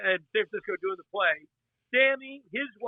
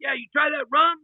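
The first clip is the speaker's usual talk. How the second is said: high excited Sammy; 7 semitones higher, 4 dB louder than usual. Retold or imitated. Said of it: "He goes".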